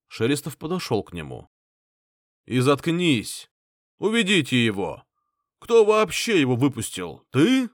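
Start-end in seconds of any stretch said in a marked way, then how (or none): 2.4-7.7 loud angry orders, the last word high; angry shouting. A narrator's reading. Clan head yelling to remove his father. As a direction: rage at the old man.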